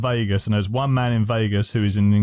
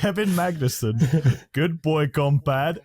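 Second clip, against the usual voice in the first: lightly voiced hype man, slow and higher; mock rapper intro; 3 semitones higher, slower than usual. Co-host imitating the rapper introducing everybody, mock intro. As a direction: draw it out like a cheesy ring introduction. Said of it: "a rapper who was introducing everybody".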